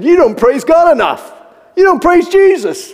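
high, forceful comic rebuke; mock scolding. Visiting father rebukes young man for not praising, loud scolding. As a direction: scold like a fired-up old preacher. Acts the elder scolding him.

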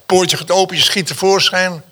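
mock-panicked birth story; dramatic build. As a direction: tell it like a thriller chase.

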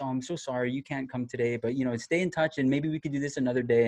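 softly voiced, gently apologetic turn-away; sweet and kind. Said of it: "she was very sweet and".

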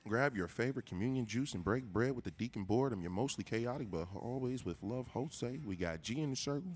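hard sell ad; commercial voice. Pretend. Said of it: "commercial voice".

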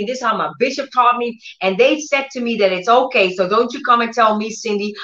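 quick, insistent mock protest; mock defensive. Preacher plays believer who will not be taught, mildly defensive. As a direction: rattle off excuses like someone refusing correction.

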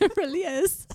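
high-pitched mock British agreement; put-on British accent. Podcaster joining co-host's sweltering-troop bit, mock British accent. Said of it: "Sorry, anyone who's British".

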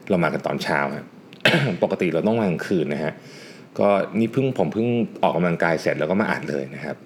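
after a workout. Real, not acted.

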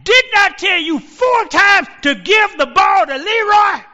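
high, loud, slow exasperated shout; he has completely lost it, roar it; coach losing it. Retold or imitated. Coach storming onto the field to confront the quarterback, loud high shout. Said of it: "he just lost it".

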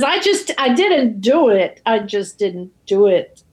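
retold protest, a touch distraught. Recapping Tyrone Power's denial to co-host, mildly distraught. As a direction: rise on the first denial, then sink back. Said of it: "Tyrone Power is distraught".

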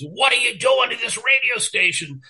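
high, mock furious yell at an employee; retold screaming boss. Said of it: "He just starts screaming the minute".

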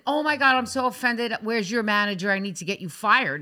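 pouty mock offense, demanding the manager; fake hurt pouting. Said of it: "I also wasn't".

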